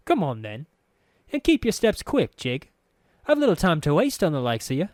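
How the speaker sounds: high, fast and impatient; impatient girl. A narrator's reading. Anna hurrying the narrator along, high and impatient. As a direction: hurry him along like a sharp lass.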